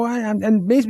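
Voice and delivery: ordinary delivery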